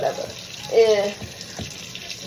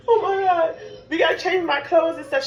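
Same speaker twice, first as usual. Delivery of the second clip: frantic; 5 semitones higher than usual. Retold or imitated. Frantic about wet clothes.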